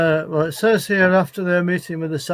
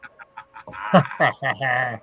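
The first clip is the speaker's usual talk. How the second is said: evil laugh; 2 semitones lower than usual. Acted. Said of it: "I can't do an evil laugh like you".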